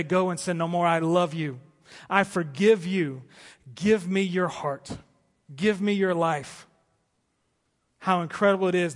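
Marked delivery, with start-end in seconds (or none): 0.0-6.7 slow, gentle invitation; tender Jesus voice. Acted. Jesus speaking to the listener, slow and tender. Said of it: "and say".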